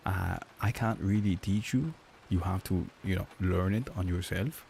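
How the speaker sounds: slow, lightly imitated German-accented English; mock German accent. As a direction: put on a German friend's accent, drawn out. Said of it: "make fun of his accent".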